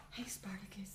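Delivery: soft unvoiced whisper to the cat; hushed whisper to a pet. Real, not acted. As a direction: whisper so the cat stays put. Calling softly to the cat.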